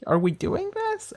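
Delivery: high, slow, drawn-out complaint; slow, high mock despair; exasperated whine. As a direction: whine it like a fed-up viewer pleading with the show. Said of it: "I'm just like".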